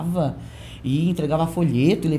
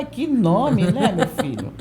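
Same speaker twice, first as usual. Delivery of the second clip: teasing laugh; 2 semitones higher, slower than usual. Retold or imitated. Teasing the boy's name back.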